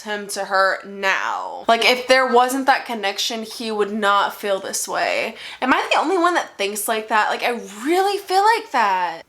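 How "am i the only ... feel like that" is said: tipsy and rambling. Real, not acted. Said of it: "I'm very drunk right now".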